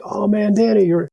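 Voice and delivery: very high, fawning impression of the officers; mock fawning. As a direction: gush at him in a high put-on voice. Platoon leaders fawning over him.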